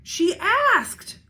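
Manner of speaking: high squealed excuse. A narrator's reading. Little sister squealing her excuse to Charlie. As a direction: squeal it in self-defense. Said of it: "the squid squealed".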